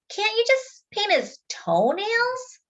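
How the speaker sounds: very high, slow, coaxing; wheedling sister. Acted. Sister suggests a compromise to Dad, high and coaxing. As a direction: try to strike a bargain. Jessie bargains.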